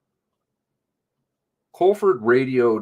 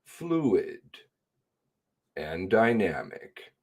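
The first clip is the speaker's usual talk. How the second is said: sarcastic quoting; 4 dB quieter, much slower than usual. Real, not acted.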